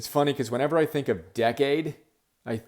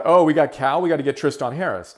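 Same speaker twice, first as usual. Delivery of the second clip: excited; 3 semitones higher, 7 dB louder than usual. Retold or imitated. Retelling Donna's eager reaction.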